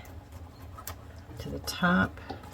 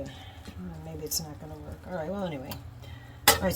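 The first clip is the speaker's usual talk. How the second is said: usual speaking voice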